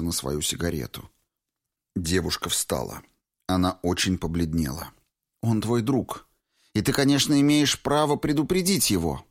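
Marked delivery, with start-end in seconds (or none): 5.4-9.2 put-on lightly higher, earnest young woman; young woman's voice. A narrator's reading. Valentina says it first.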